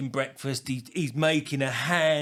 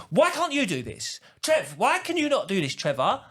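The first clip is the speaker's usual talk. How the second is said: mock nagging wife; 4 semitones higher than usual. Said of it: "he goes".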